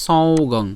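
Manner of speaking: "সঙ্গং" with a drawn nasal before the g; careful pronunciation. Shown as a demonstration. Teacher shows how the cluster sounds, careful "সঙ্গং". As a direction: say "সঙ্গং" as song-gong, both nasals sounded. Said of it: "তাহলে উচ্চারণটা কেমন হবে?".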